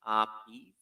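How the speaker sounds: ordinary talk, nothing marked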